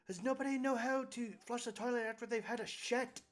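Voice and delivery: high, loud outraged rant; hammed-up indignation, climbing to a loud high cry; meme impression. Game master quotes a meme to players, high-pitched outraged meme impression. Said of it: "it reminds me of that one meme".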